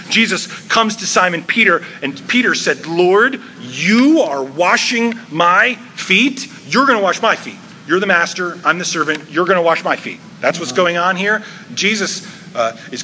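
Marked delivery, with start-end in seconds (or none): 2.9-10.2 taken-aback protest with stressed words; aghast. Acted. Peter objects to Jesus washing his feet, aghast. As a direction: protest in shocked disbelief, emphatic and a bit raised. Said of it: "he is aghast".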